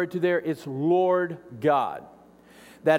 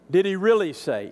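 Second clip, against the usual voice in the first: pushy "really"; mock incredulous. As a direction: press the doubt. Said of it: "I want you to notice the tone here".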